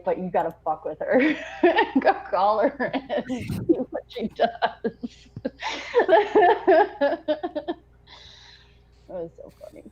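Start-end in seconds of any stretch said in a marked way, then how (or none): 0.0-5.0 laughing. Retold or imitated. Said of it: "He's like".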